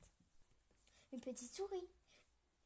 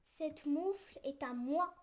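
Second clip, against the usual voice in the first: sure of herself; 3 semitones higher, 6 dB louder than usual. Acted. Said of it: "déclare-t-elle sûre d'elle".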